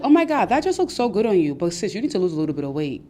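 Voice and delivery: sweet praise, then the jab; backhanded compliment. Retold or imitated. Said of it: "they're usually passive aggressive".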